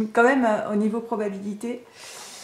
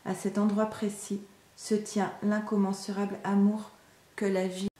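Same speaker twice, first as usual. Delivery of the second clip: measured, even read-aloud delivery; spiritual message reading. Acted. Reader offers a message of love and surrender, measured reading. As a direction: read it as a guided inspirational text.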